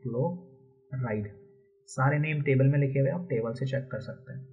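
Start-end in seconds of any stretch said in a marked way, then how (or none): 0.0-1.3 क्लोराइड said slowly in two parts, "klo... ride"; model reading. Shown as a demonstration. Teacher answering how to read the attached chlorine, slow model reading. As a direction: break क्लोराइड after "klo", unhurried. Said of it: "इसको हम क्या पढ़ेंगे".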